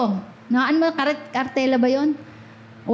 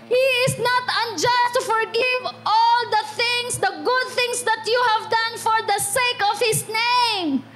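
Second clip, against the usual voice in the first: high, ringing preacher's call; full-force preaching; 7 semitones higher than usual. Acted. Preacher rousing the church about legacy. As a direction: drive it home to the congregation.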